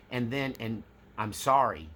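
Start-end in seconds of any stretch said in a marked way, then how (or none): 1.2-1.9 sincere apology. Shown as a demonstration. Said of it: "the last portion of a proper apology".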